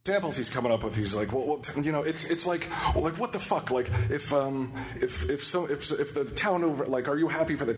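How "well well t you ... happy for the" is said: halting, stumbling restarts; stuttering. Retold or imitated. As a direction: trip over every word. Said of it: "I'm stuttering".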